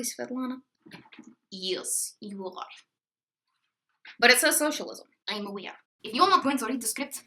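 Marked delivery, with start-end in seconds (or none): 1.5-5.8 fake Russian accent. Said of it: "fake horrible Russian accent".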